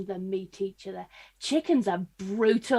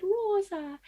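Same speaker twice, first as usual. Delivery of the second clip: Rosa in a lilting Welsh accent; 9 semitones higher than usual. Shown as a demonstration. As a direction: say Rosa the Welsh way, sing-song. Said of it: "in a Welsh accent".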